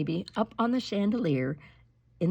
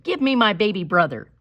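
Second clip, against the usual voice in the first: louder, stern command; firm demand; 3 semitones higher, 6 dB louder than usual. Acted. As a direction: order the gorilla firmly. Kristen demands from gorilla.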